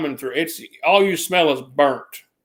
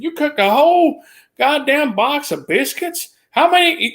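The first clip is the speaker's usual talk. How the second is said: very high, outraged mock yell; cussing boss; 10 semitones higher than usual. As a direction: spit the curse out in disbelief. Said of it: "she cussed at me".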